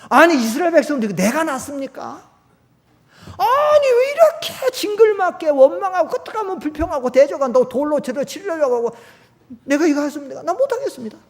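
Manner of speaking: high, loud, near-tearful complaint; Moses crying out. Retold or imitated. Voicing Moses complaining to God, high tearful lament. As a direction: plead with God as if at the end of your rope. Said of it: "모세가 뭐라는 줄 알아요".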